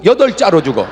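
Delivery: ordinary delivery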